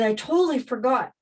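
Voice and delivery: mock sudden remembering; retold exclamation. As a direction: exclaim it as the forgetful cashier. Retold cashier's exclamation repeated.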